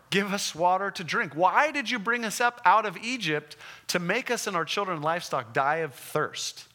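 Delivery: demanding complaint. Acted. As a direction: play the thirsty crowd, indignant. Israelites demanding water.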